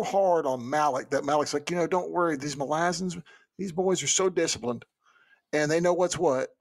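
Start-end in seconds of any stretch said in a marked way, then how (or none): 1.7-6.5 put-on lightly done Southern Texas boy; easygoing Southern Texas accent. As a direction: reassure in a mild Texas accent. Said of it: "minus the Southern Texas boy accent here".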